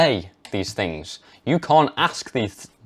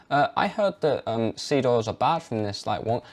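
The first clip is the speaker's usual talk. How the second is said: mumbled, softer and unsure; hesitant version; 4 dB quieter than usual. Shown as a demonstration. Redoing the weak way to tell parents, hesitant and unsure. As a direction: trail off like you doubt it. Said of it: "If we go back".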